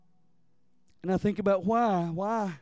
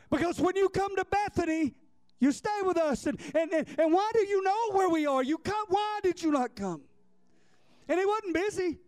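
high, aching plea of grieving sisters; pleading sisters; 8 semitones higher than usual. Retold or imitated. Grieving sisters asking Jesus why he stayed away, high pleading cry. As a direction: cry out to him, wounded he never came.

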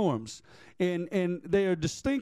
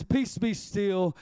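slow command; slower than usual. Acted. Jesus calming the storm.

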